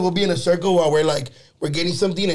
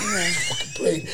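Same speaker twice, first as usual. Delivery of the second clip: squeaky, much higher line broken by laughter; laughing retort; 5 dB quieter, slower than usual. Retold or imitated. Retelling the friend's reply at the baptism, laughing it out. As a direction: crack up while telling him off, slowly.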